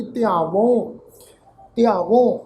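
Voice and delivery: ਧਿਆਵੋਂ with a nasalised final au; nasal ending. Shown as a demonstration. Teacher models first-person verb, ਧਿਆਵੋਂ with nasal last vowel. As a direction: end ਧਿਆਵੋਂ through the nose. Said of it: "ਕੇ ਨਾਸਿਕ ਉਚਾਰਨ ਕਰਾਂਗੇ ਜੀ".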